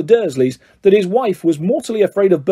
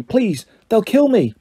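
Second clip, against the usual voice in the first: higher, slow, pleading croak; 5 semitones higher, slower than usual. A narrator's reading. Harry begs the elf to stop, croaking plea. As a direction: beg slowly with a croak. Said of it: "croaked Harry".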